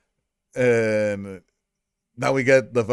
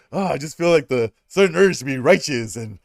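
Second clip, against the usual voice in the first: mock Captain America; 3 semitones higher, 5 dB louder than usual. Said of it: "all his lines about".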